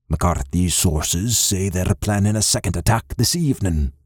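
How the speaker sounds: a hint of an old clan chief; older Scottish father. Father delivers grave news.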